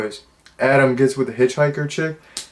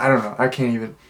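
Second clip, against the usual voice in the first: ordinary delivery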